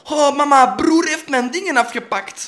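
high, loud, drawn-out tattling; klagend kind. Retold or imitated. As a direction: tattle to mama like a kid. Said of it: "vroeger in mijn jeugd was ze van". (hoog en luid klikkend kind)

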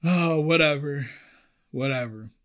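high, mocking coworker voice with a fake laugh. Coworkers teasing her about making coffee, high mocking voice. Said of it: "And they're like".

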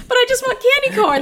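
high whiny plea, laughing. Retold or imitated. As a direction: beg for candy like a child. Whiny tied-up self quote.

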